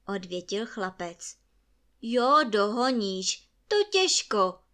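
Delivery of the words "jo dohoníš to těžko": loud, scornful high snap; angry retort. A narrator's reading. Father scoffs at his son, loud angry retort. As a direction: throw it back at him in anger. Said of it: "řekl otec hněvivě".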